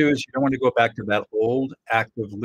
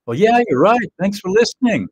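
partner role; 10 semitones higher, 4 dB louder than usual. Acted. Partner voiced in role-play.

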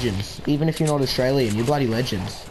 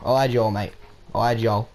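consoling mock-Aussie mate; Australian stereotype. Gamer consoling teammates after a loss, in mock Australian. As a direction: let them off in an Australian accent. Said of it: "I can't do that stereotype".

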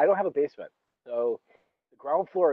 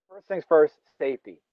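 emphatic; 3 semitones higher, 6 dB louder than usual. Real, not acted. Announcing the safety rule.

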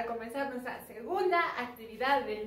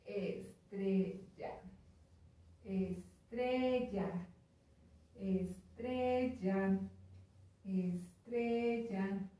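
slow drawn word; 3 semitones lower, 4 dB quieter, slower than usual. Shown as a demonstration. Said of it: "slow tracing while saying word".

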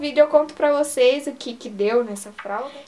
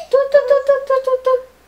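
high, louder tu tu tu chant; playful tu tu tu; 10 semitones higher, 6 dB louder than usual. Pretend. Mother makes playful noises at her baby, high and loud. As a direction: bounce the syllables to amuse a baby.

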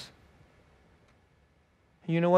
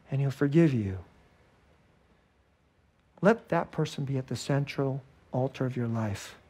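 ordinary talk

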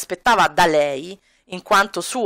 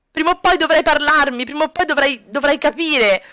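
higher, hurt woman insisting; Kami's voice; 4 semitones higher than usual. Acted. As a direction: plead while giving in. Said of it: "e gli dirà".

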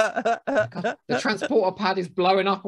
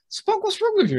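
much higher incredulous question; mock startled crew. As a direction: squeak it out in disbelief. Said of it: "And they're like".

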